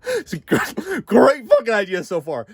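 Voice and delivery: high, squeaky approving voice; mock God praising. Mocking God's praise, laughing.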